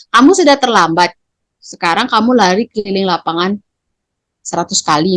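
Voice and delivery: mild stern order; a hint of a commanding teacher; forcing teacher. Shown as a demonstration. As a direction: play a teacher imposing a punishment. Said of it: "Itu memaksa itu".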